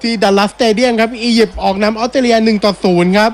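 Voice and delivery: match commentary, pitch lifted; live score announcement. Real, not acted. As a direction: announce the half-time score to viewers. Announces the half-time score.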